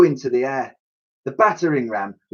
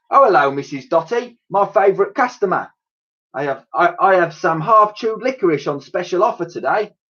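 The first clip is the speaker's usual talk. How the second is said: higher friendly trader's voice; cheerful shopkeeper; 7 semitones higher than usual. Acted. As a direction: greet your best customer. Raj the sweet seller.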